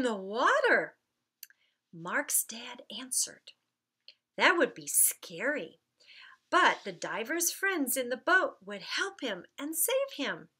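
lively storybook reading with light character voices; reading a story to children. Acted. Children's minister reading the Mark story aloud, lively storybook voice. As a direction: read it like story time for little ones.

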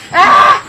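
high, loud, sudden scream; terrified scream. Real, not acted. Gamer caught by the monster, terrified scream. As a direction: shriek in real fright. Jump scare.

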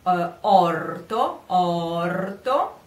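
orto with round closed o, slow; Italian closed o. Shown as a demonstration. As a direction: stretch the o in orto. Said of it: "Now we have two O's".

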